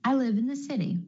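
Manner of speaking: "city" with the T flapped like a quick D. Shown as a demonstration. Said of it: "The flap T is really just a D sound".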